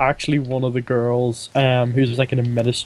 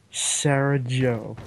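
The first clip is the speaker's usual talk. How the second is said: mock savouring; 4 dB quieter, much slower than usual. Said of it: "Don't make fun of her".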